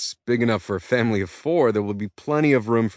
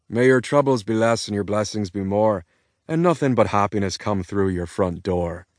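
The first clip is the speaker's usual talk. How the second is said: Irish brogue toast. Acted. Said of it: "so I try again".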